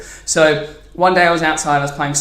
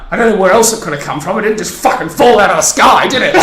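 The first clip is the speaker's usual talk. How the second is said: loud, higher sarcastic mock anger; angry neighbour; 5 semitones higher, 8 dB louder, faster than usual. Car owner confronting the mum, angry and loud. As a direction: build to loud, indignant sarcasm. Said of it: "quite angry".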